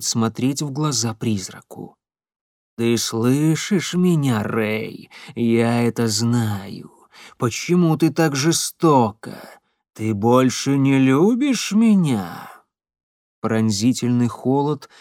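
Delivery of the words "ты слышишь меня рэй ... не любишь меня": slow pleading ghost. Acted. Ghost pleads for hidden girl.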